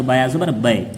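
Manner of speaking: quick short recitation; read a bit quickly. Shown as a demonstration. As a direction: clip बे short, no stretch. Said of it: "थोड़ा जल्दी पढ़े".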